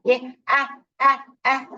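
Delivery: loud modelling of the wide vowel; open vowel demo. Shown as a demonstration. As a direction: open up big on "आ". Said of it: "ऊपर खुलेगा".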